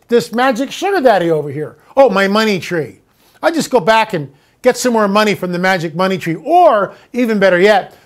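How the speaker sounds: lightly voiced careless borrower, breezy; mock spendthrift. Host mocks a government borrowing from a money tree, lightly hammed-up. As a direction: play the happy-go-lucky debtor, lightly mocking.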